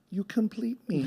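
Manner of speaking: dreamy, high romantic movie quote; movie line voice. Retold or imitated. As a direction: gush it like a rom-com hero. Mocking the Hollywood movie line.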